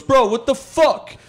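high, hammed-up street challenge; mock angry yell. Stranger challenging the driver in traffic, mock angry yell. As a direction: snap it out like an irritated stranger.

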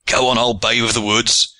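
lively egging-on, no real laugh; laughing cry. A narrator's reading. Archers egging on their big comrade, crying merrily. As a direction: cheer him on in mild merriment. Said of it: "cried the archers, laughing".

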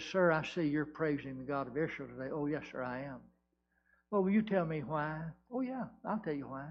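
low, soft storytelling dialogue; hushed, low-pitched answer; subdued exchange. Acted. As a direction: bring it right down and play both speakers quietly. Fourth exchange, acted in hushed voice.

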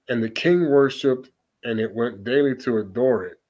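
put-on measured reading of the old text; scripture reading. Preacher reading Bel and the Dragon to listeners, steady. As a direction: read the passage steadily, solemnly.

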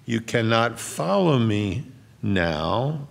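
slow phrase, then a separate "now"; emphatic final now. Shown as a demonstration. Preacher testing one reading of the verse, emphatic "now" at the end. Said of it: "if it's emphatic, it's the first word or the last word".

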